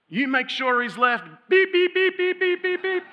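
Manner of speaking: very high, loud furious shout with bleeps; imitated screaming. Girl screaming at her friend on the phone, imitated furious shouting. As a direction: scream orders, swearing beeped out. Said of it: "She's screaming back at her".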